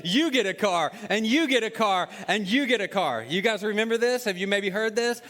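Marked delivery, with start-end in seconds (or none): 0.0-3.2 imitating Oprah. Oprah giving the audience cars, hyped-up announcing. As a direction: hand out cars to a cheering studio crowd. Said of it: "And she said".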